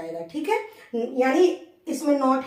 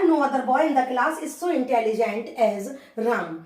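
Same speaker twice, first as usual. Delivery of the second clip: slow, word by word; slow dictation; much slower than usual. Shown as a demonstration. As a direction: read it out slowly for students to copy. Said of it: "teacher reads example sentence". (धीरे-धीरे बोलकर लिखवाना)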